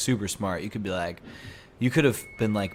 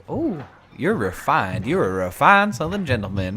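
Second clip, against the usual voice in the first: mock admiration; 6 semitones higher, 9 dB louder than usual. People admiring the Southern gentleman, hammed-up awe. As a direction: gush as if deeply impressed. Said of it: "And they're like".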